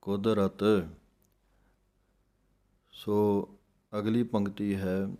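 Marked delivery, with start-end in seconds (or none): 0.0-0.9 ਕੁਦਰਤ said light and soft; soft careful ਕੁਦਰਤ; soft pronunciation. Shown as a demonstration. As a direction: keep ਕੁਦਰਤ gentle, no hard push. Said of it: "ਪੋਲਾ ਉਚਾਰਨ ਕਰਨਾ ਹੈ".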